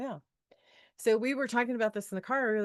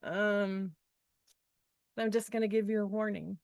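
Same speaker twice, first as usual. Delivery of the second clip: police officer; 5 dB louder than usual. Retold or imitated. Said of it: "the police officer who says".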